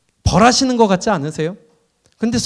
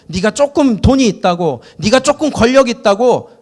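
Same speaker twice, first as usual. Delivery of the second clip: raised, driving sermon voice; fervent preaching; 4 semitones higher, 3 dB louder than usual. Real, not acted. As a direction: preach it hard to the congregation. Preacher rising to full force.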